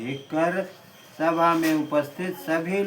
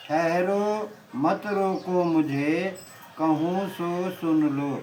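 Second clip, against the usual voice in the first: poem recitation. Acted.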